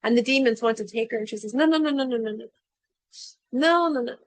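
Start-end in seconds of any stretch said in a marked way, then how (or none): 1.5-4.2 loud, higher burst of no no no; urgent refusal. Acted. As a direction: protect her, stop them now. Pleading to spare servant.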